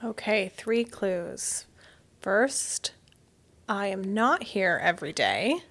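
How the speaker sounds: hushed whisper to hide her voice. Acted. Mystery reader whispering clues to disguise her voice.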